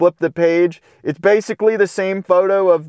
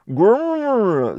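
mock dog growl; 5 semitones higher than usual. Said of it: "said Mac".

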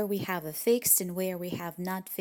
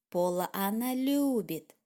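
final любит pressed with a fall; stress on любит. Shown as a demonstration. Teacher showing that любит is emphasised. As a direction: punch the closing любит. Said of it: "she really loves him".

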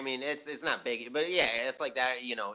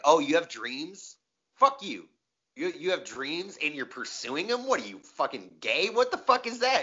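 mock the dreamer with scorn; mocking local guy; 3 semitones higher than usual. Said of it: "people around here are really like".

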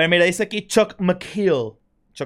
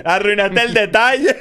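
laughing; 4 semitones higher, 6 dB louder, slower than usual. Real, not acted. Repeats comment while laughing.

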